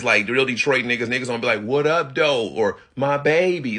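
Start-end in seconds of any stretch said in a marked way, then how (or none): 1.6-2.5 "What up, though?" with each word leaned on; overemphasized. Shown as a demonstration. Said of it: "putting too much emphasis on the word". 3.0-3.8 put-on "My baby" pushed higher, too much weight on it; overemphasized. Shown as a demonstration. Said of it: "don't do it like that".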